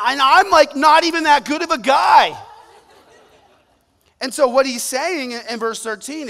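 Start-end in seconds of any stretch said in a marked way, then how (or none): 0.1-2.4 loud, much higher exclamation; preacher confessing loudly to the crowd; emphatic. Real, not acted. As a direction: blurt it out with a laugh in the voice. Emphatic self-deprecation in sermon.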